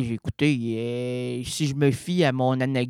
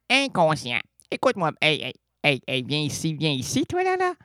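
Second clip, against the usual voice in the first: talking to his unconscious. Pretend. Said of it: "je dis à mon inconscient".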